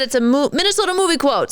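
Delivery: usual speaking voice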